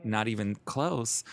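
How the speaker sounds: slow, stretched-out correction; drawn-out denial. Retold or imitated. Setting straight people who guess Alabama, slow denial. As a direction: take your time denying it, slowly. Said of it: "And I'm like".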